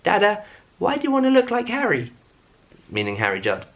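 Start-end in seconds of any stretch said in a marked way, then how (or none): 0.0-2.1 put-on high child's voice, much higher than his own; little son's voice. Son asking dad about his hat, high child voice. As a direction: play a small boy asking his dad. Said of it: "my son, Buzz, went".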